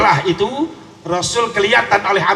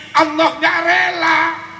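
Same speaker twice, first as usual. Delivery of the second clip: slow forceful shout; 10 semitones higher, slower than usual. Acted. Preacher exclaims God's displeasure.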